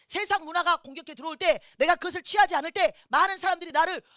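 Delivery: forceful preaching. Real, not acted. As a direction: drive each phrase home to the congregation. (힘주어 외치는 설교)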